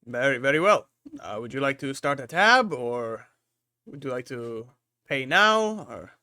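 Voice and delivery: hint of a businesslike tavern host; obliging barkeeper. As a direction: offer the options politely, lifting at the end.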